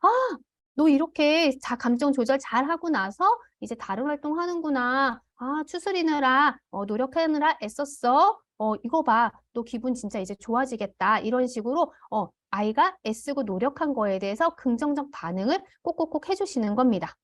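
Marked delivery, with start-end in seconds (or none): 0.0-11.2 put-on shower the child with delighted praise; over-the-top praise for a calmed child; enthusiastic praise. Shown as a demonstration. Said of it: "폭풍적으로 긍정적인 반응과 칭찬". 15.8-17.1 whispered emphasis; secret-sharing whisper. Real, not acted. Emphatic aside.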